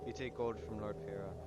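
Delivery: attempted German drifting into Irish; German accent that wanders toward Irish; German accent slipping Irish. Mercenary taking Farah's gold, German accent gone Irish. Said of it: "I keep going Irish".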